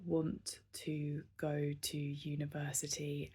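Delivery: whispered, hushed confession; scared whisper. Real, not acted. Vlogger admitting her university dream to viewers, whispering. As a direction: breathe it out like a secret you're scared to say. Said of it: "it feels so scary to say this".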